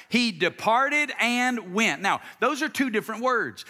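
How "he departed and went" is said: slow, deliberate "He departed and went." once more; slow call and response. Shown as a demonstration. Preacher repeats the verse with the crowd, slow. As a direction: lead the crowd through it again slowly. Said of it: "One more time".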